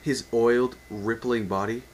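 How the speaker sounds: amused double-take on the purple prose; breaking off amused. Real, not acted. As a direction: stop and question the line. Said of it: "I'm sorry".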